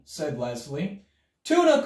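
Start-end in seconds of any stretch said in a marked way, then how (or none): 1.4-1.8 high loud call across the room. A narrator's reading. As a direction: call it out eagerly. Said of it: "called Buster".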